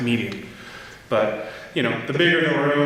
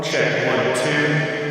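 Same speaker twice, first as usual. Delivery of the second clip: reverb with equalizer on; filtered reverb on the mic check; metallic voice filter; 2 semitones higher, much slower than usual. Shown as a demonstration. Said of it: "so this is with my equalizer on".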